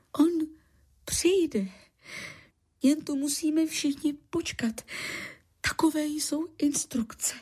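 high, halting rote recital; talking puppet. A narrator's reading. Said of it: "odříkával Hyhlík jako mluvící loutka". (odříkávání jako mluvící loutka, vysokým hlasem)

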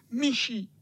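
very high, whiny sick-cat voice; whimpering cat. A narrator's reading. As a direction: whine it like a poorly old tomcat. Cat answers in same voice.

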